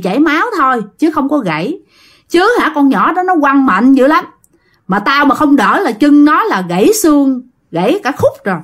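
mildly acted telling-off, rising in pitch; retold scolding. Great-grandfather scolding the father in a dream, retold telling-off. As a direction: scold like an indignant elder, lightly imitated. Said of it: "ông Cóc chửi ba quá trời luôn".

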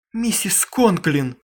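slow, loud call; girl calls out to the mother, out of breath; breathless shout. A narrator's reading. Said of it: "задыхаясь, крикнула Крисси".

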